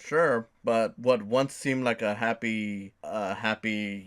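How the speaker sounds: halting, stumbling over words; stuttering. Real, not acted. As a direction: catch on the words, restart. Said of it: "I know I'm kind of stuttering".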